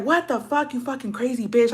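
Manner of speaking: high-pitched mock outrage; indignant outrage. Slapped girl cursing at the mom, high indignant outrage. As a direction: imitate a shocked girl cursing back.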